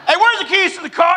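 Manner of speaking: high, loud call through the house. Retold or imitated. Husband calling to wife upstairs, yelling. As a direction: yell up to the attic.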